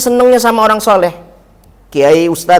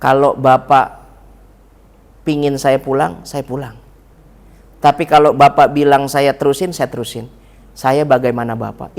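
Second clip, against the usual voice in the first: humble son; 5 semitones lower than usual. Retold or imitated. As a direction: offer obedience gently. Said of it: "Beliau itu ngomong begini".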